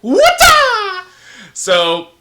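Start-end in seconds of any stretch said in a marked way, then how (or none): 0.0-1.0 high, loud kung-fu battle cry; mock martial-arts scream; Bruce Lee. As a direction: shriek it like a martial-arts star. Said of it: "Bruce Lee".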